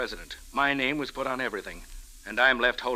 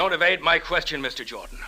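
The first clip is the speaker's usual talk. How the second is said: angry; 3 semitones higher than usual. Acted. Husband demands answer.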